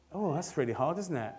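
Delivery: quiet inner sigh. Retold or imitated. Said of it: "And I'm thinking".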